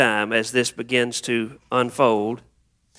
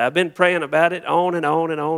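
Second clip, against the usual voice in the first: exasperated venting; 5 semitones higher than usual. Acted. Parishioner warning the preacher off advising prayer, exasperated venting. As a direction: act out a fed-up churchgoer cutting the preacher off. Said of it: "begin to just dump everything out".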